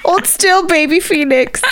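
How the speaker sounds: high sing-song coo to a newborn; baby talk. Pretend. Cohost cooing at the story's newborn baby, high baby talk.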